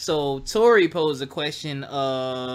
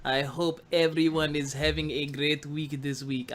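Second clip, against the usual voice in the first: put-on slow podcast intro in a Wakandan-style accent; 3 dB quieter, much slower than usual. Host greets podcast listeners, putting on a Wakandan accent. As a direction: ease into a mock Wakandan accent. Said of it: "I don't know why I did the accent".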